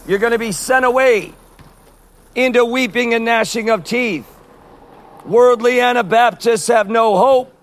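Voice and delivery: preaching hard at passersby; doomsday street preacher. Real, not acted. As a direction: warn them of Judgment Day.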